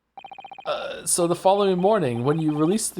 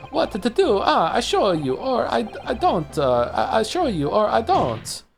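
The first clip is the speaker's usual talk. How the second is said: lightly voiced Italian man, hesitant; a hint of a fussy Italian witness. Witness in court, stalling before showing his neck, light Italian lilt.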